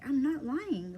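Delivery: mild mock frustration; frustrated denial. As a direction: insist you're not lying. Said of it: "so I got really frustrated".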